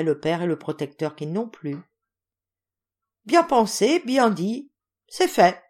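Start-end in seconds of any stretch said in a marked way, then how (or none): 3.2-5.6 hearty decision. A narrator's reading. General decides enthusiastically.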